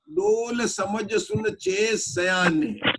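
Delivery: slow, drawn-out line of verse; verse recitation. Shown as a demonstration. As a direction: recite it slowly, word by word. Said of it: "यहाँ दौलत राम जी क्या कहते हैं".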